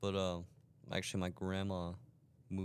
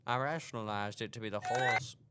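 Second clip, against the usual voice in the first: put-on southern accent. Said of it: "Just talk in your normal voice".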